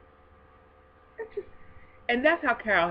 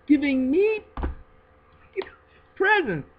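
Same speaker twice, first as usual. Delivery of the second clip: excited; 10 semitones higher, 5 dB louder than usual. Real, not acted. Excited about receiving gifts.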